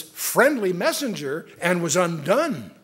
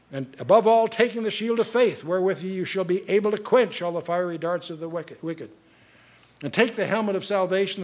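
solemn, measured reading of the verses; scripture reading. Acted. Preacher reading Ephesians to his flock, solemn reading. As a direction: proclaim the text like holy writ. Reads armor list from Ephesians.

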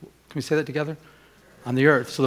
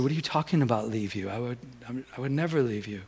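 retold tender reassurance; 3 semitones lower, 7 dB quieter than usual. Reassuring tearful fiancée, retold.

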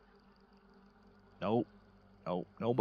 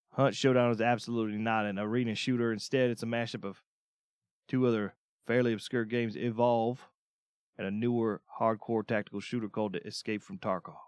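even read-aloud review voice. Acted. Reading the Hunt review to stream viewers, steady read-aloud.

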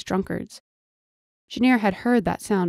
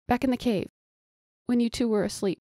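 urgent pleading; 5 semitones higher than usual. Acted. Pleading argument with captors.

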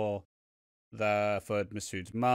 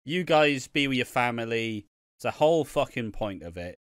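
mock Carol; 5 dB louder than usual. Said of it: "and she's like".

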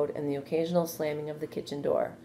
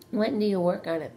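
higher, eager pleading question; begging; 5 semitones higher, 3 dB louder than usual. A narrator's reading. Wilbur pressing Charlotte about her plan, begging. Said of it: "begged Wilbur".

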